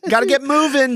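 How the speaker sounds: high, whiny mom hurrying him; nagging mom. Retold or imitated. Mom hurrying her son out of bed. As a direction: pitch it up and nag like a mom. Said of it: "She'll stand outside your door".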